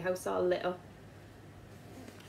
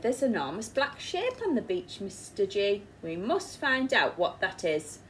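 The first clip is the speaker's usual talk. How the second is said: excited. Acted. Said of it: "she exclaimed".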